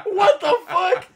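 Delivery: slow, high, loud mock disbelief through laughter; retold shocked outburst. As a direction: draw it out, scandalized and laughing. Retold shock at grandma's remark.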